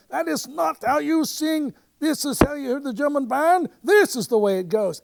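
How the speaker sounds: loud, high, outraged correction; furious writer showing them how it's done; incensed outburst. Retold or imitated. Playwright jumping up at the audition, loud incensed protest. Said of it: "is incensed".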